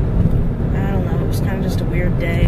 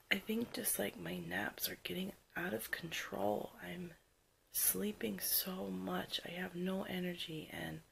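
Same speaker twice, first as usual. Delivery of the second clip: after crying. Real, not acted. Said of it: "so tired".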